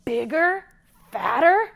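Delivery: loud, slow greedy troll; troll giving in greedily; shouting troll. Acted. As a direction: shout him away. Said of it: "shouted the troll".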